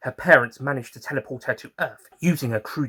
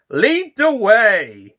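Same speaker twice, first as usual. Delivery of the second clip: eager invitation; 10 semitones higher, 10 dB louder, much slower than usual. Acted. Doctor's eager reply.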